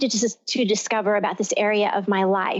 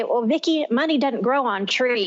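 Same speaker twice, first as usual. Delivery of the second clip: light Texas drawl of a dad; a hint of her father's Texas drawl; mild mock Texan dad voice; dad's Texas drawl. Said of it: "in my dad's deep, you know, Texas drawl voice".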